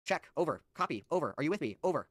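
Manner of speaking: lightly played walkie-talkie call, short separate words; mock radio check. Debater testing if opponent follows, mock radio check. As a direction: check in like a radio operator, pausing between calls.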